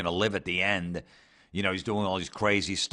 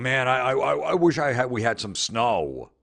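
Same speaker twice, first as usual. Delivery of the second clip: whiny mock wish; 5 semitones higher, 5 dB louder than usual. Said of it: "are you really going".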